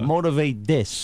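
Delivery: slow, defiant book title; mock tough-guy title; Brooklyn attitude. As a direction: hurl it as a challenge.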